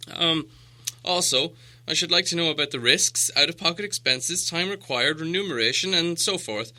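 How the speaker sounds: a lightly voiced hobbit listing terms primly; like a careful clerk reading out conditions; businesslike Bilbo. A narrator's reading.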